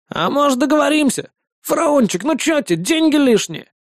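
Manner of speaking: high, pleading offer of a bribe; wheedling bribe. Acted. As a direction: try to buy off the cop, high and eager. Dealer pleading to bribe cop.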